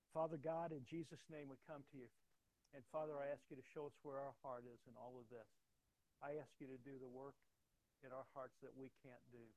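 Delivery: loud, fervent opening, then easing; public prayer. Real, not acted. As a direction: pray aloud for the congregation. Leads closing prayer.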